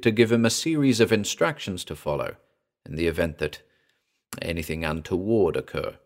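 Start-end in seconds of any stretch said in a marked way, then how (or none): none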